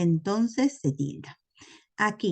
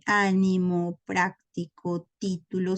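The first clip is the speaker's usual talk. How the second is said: ánimo, práctico, título, each stressed on its first syllable; antepenultimate stress. Shown as a demonstration. Teacher listing esdrújulas, first-syllable stress in ánimo, práctico, título. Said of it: "son las que tienen la mayor fuerza de voz".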